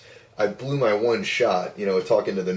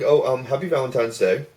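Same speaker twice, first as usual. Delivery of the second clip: mock-flustered, slightly raised voice; awkward greeting; 5 semitones higher, 4 dB louder than usual. Caller wishing hostess happy Valentine's, acted awkward greeting. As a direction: hesitate into a higher, awkward well-wish.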